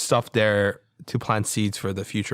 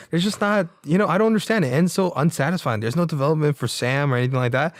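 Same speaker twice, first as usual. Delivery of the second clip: raised whiny critic voice; mock whiny critic; 5 semitones higher than usual. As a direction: play the complaining critic. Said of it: "criticism of Roper, who's like".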